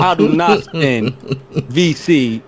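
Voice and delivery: slow laughing denial. Real, not acted. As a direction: laugh through the protest. Laughing denial of being cursed.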